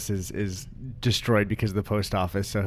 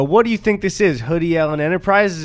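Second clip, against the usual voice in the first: indignant shout; 7 semitones higher, 6 dB louder than usual. Acted. Acted postal worker confronting.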